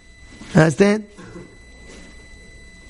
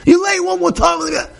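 higher, puffed-up ranting at his wife; arrogant husband ranting; 10 semitones higher than usual. Retold or imitated. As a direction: play the self-important husband laying down threats. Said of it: "the guy says".

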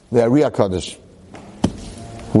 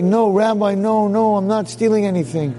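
flustered protest; 7 semitones higher than usual. Acted. Caught man protests to rabbi.

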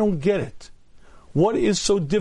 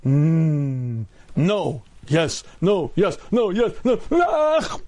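inner tempted voice; much slower than usual. Pretend. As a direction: act out the tug of temptation. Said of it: "the other voice says".

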